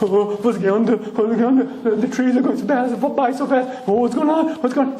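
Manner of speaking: scared passenger on the highway; frightened Shmuel. Acted.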